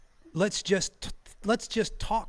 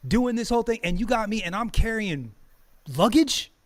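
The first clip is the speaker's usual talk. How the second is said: louder, rising outraged complaint; indignant rant; 4 dB louder than usual. Retold or imitated. Streamer voicing an African carrying bags, indignant. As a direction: protest like your land was taken.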